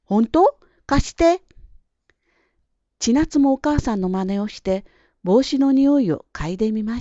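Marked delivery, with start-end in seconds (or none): 0.0-1.4 high, eager questioning; curious child. A narrator's reading. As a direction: ask eagerly, wanting a sniff. Girl curious about hat smell. (興味津々の子どもの声で)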